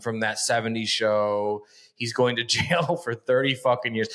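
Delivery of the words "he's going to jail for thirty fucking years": a laugh breaking into the sentence; real chuckle while talking. Real, not acted. Host gloating over a jail sentence, laughing. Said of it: "And I'm laughing 'cause".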